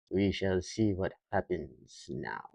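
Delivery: slow menacing villain line. Acted. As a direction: savor it like a mustache twirling villain. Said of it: "It's my villain voice".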